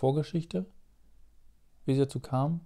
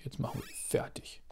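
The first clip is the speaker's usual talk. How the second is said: a low conspiratorial whisper; 13 dB quieter than usual. Real, not acted. Gamer whispering to viewers about the enemies, hushed.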